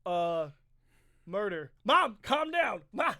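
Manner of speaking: hammed-up panic, begging his mother to calm down; a son on the phone from jail, yelling in a mock panic; mock panicked pleading. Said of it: "so Ralph Macchio calls his mom. He's like".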